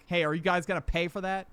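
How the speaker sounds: retold firm question, not shouted; pretty stern. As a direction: challenge them sternly without yelling. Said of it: "pretty sternly".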